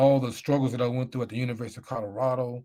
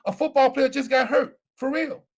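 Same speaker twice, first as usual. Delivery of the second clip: trainer's news; 10 semitones higher, 5 dB louder than usual. Retold or imitated.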